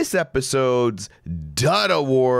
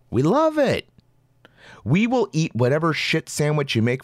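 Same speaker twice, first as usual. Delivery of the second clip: sarcastic; 4 semitones higher than usual. Real, not acted. Ironic exclamation.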